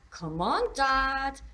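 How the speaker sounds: loud, high, rising plea; pleading. A narrator's reading. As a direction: call out to dad, begging him to hurry. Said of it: "she pleaded".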